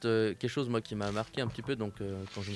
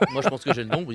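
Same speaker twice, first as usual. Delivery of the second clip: chuckling through the words; laughing; 2 semitones higher, 8 dB louder than usual. Real, not acted. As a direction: laugh while saying it.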